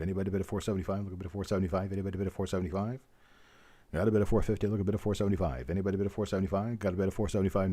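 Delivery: rapid auctioneer chant; frantic trading floor shouting. Acted. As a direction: rattle off the bids like an auctioneer. Runs a coin roll auction.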